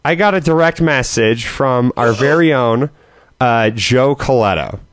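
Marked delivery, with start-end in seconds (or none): 3.4-4.8 low, slow, heavy big guy voice. Acted. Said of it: "should I do the big guy voice every time".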